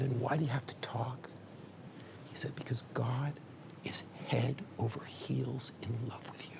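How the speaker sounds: soft, intimate whisper; slow to a tender hush. Acted. Rabbi explaining God's love to his student, whispering. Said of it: "Why do you whisper".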